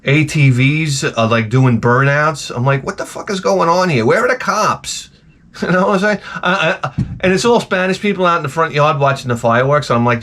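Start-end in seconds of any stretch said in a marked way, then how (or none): 2.8-5.1 mock alarm. Acted alarm at street chaos.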